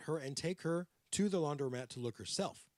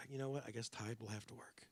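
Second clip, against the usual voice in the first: put-on New York accent; 3 semitones lower, 10 dB quieter than usual. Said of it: "I'm doing the New York accent".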